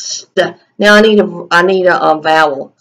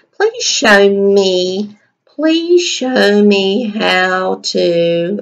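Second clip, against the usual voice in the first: slow dictation; much slower than usual. Shown as a demonstration. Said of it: "teacher dictating while writing".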